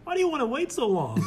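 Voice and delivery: high-pitched incredulous question; retold freak-out. Imitating Mormons reacting to marrying at twenty-six, high freak-out. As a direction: mimic someone aghast at the wait. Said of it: "everyone would freak out".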